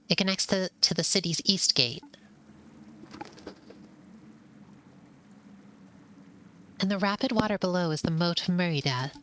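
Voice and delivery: a keen mouse showing off his knowledge; eager know-it-all mouse. Acted. Voices knowledgeable mouse companion.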